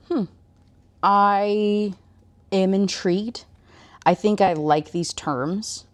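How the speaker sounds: a lightly acted, drawn-out musing; intrigued. Shadow answering her bargain in retelling, lightly acted intrigue. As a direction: weigh the offer slowly, with pauses.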